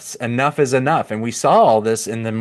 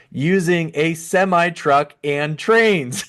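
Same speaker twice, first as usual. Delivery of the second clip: suppressed laugh; 5 semitones higher than usual. Real, not acted. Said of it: "can't even say this with a straight face".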